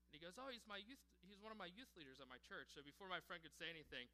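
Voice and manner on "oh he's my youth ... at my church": higher-pitched acted teen reply; upbeat imitated student; eager student. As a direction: lightly voice a kid vouching for his leader. Student explains to the tough kid.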